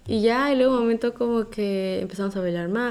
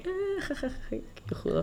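mock laughing aside; 10 semitones higher, 9 dB quieter than usual. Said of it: "y yo como que".

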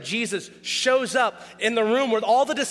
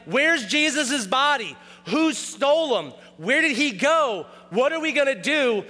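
higher-pitched, worked-up disciples' questions; mock panic; 4 semitones higher than usual. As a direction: act out bewildered disciples searching for a body. Acting out disciples at empty tomb.

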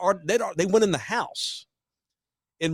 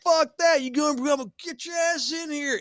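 mock rough insistence; 8 semitones higher than usual. Mark insisting.

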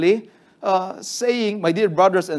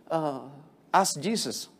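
usual speaking voice

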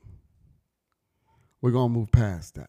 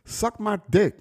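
high-pitched impression of a mouthy schoolboy; kid's brash taunt, imitated high; imitated cussing boy; 10 semitones higher, slower than usual. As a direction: mimic a cussing little boy, voice pitched well up. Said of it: "this little white boy talking like this".

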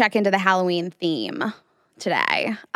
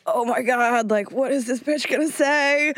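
imitated uncomfortable dread; 4 semitones higher, slower than usual. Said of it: "he is so uncomfortable".

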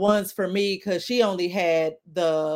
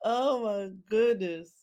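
usual speaking voice

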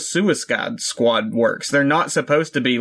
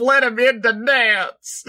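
1 pleading plea; 10 semitones higher, slower than usual. Pretend. Pleading for lonely King Shark.

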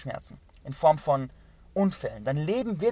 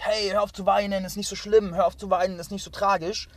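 dismissive parent; 4 semitones higher, 5 dB louder than usual. Retold or imitated. Voices parents hushing a crying child.

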